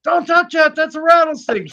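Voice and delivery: high, urgent mock warning; boyfriend's alarmed warning. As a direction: warn her fast. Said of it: "He says".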